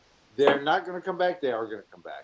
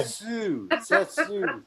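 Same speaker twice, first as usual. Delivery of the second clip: put-on Danish accent; 4 semitones higher, much slower than usual. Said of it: "I'm from Denmark, and I say".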